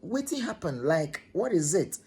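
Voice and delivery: high, startled asking what happened; alarmed question. Retold or imitated. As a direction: ask in sudden alarm. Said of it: "I was like".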